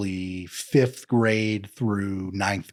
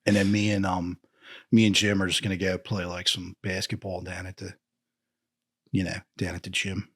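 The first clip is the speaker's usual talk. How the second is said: surferish Philly accent. Shown as a demonstration. Demonstrating plans with Jim, surferish Philly accent. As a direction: ramble in broad Philly vowels. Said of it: "a little surferish sometimes".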